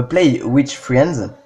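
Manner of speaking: slow attempt at an English accent. Real, not acted. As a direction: say it slowly in French-tinged English. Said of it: "Bel accent anglais, vous avez vu".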